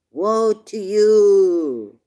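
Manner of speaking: a slow impassioned wail of woe; crying out woe. Real, not acted. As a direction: call it out with full force. Preaching a lament.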